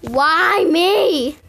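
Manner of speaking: laugh-shout in mock despair; laughing wail. Real, not acted. Car keeps breaking, laughing wail.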